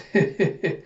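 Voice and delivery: little high snicker; quick mock hee-hee-hee; acted giggle. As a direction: giggle in character. Fury licking her tears, giggles.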